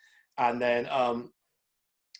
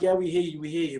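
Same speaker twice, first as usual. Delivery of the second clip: dismissive mock reply; 4 semitones higher, 5 dB louder than usual. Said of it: "the response was always like".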